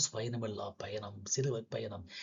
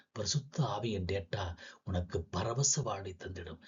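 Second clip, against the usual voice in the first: hushed, unvoiced whisper of the line; 4 semitones lower, 6 dB quieter than usual. Poet whispers the blessing to listeners, hushed. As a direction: breathe it out as a secret.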